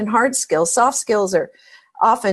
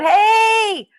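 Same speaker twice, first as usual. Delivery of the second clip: yelling down; 11 semitones higher, much slower than usual. Retold or imitated. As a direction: shout it down to the stranger below. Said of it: "he yells down".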